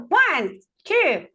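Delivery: drawn-out count with falling calls; photo countdown. Real, not acted. Host counting for the group photo, drawn out. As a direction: stretch each number out for the group.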